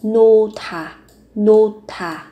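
"nô thả" with the h merged into a breathy th; aspirated "nô thả". Shown as a demonstration. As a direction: demonstrate "nô thả", h and t joined as one aspirated th. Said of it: "phụ âm hờ và từ kết hợp".

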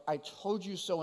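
a soft "I told you so", said quietly with no edge; gentle. Shown as a demonstration. Pastor showing how God says it, gently and softly. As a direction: say it as reassurance, not blame. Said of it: "brought in a more gentle way".

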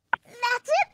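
high, loud eureka; excited realization. Acted. Ziz realizing the hardest word, excited. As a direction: it just clicked. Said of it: "thought Ziz".

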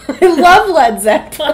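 quoting a movie line. Retold or imitated. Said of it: "most finely executed joke in all of film history".

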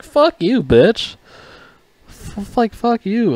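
high, heated retort; high, heated fuck-off; angry outburst. Real, not acted. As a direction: snap back in disgust.

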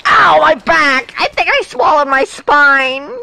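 high, hammed-up pained yell; cry of pain. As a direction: groan it out as if badly hurt. Thrown down, hurt back.

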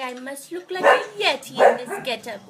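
high, quavery granny greeting; put-on sweet old lady. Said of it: "'cause I'm like".

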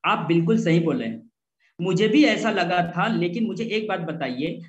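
calm, sincere, agreeing; agreeable reply. Shown as a demonstration. Right way to answer a worried prospect: calm, sincere agreement. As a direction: reassure gently before making the point. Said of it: "इस तरह से बोलो".

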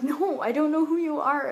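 high, loud, emphatic denial; retold yelling. Telling the drunk stranger she doesn't know her, retold yell. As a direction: act out yelling at someone who won't listen. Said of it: "kinda yelling now".

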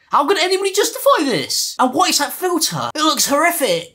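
high-pitched, appalled disbelief; incredulous outburst. Real, not acted. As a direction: exclaim in horrified disbelief, voice shooting up. Outraged reaction to the played clip.

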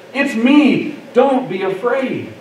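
unhurried preacher's quote, settling at the end; measured reassurance. Acted. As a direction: let each phrase land separately. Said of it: "He says".

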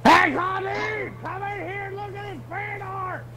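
high, loud call across the house. Real, not acted. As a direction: shout for Connie to come look. Calling someone to come see.

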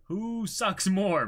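usual speaking voice

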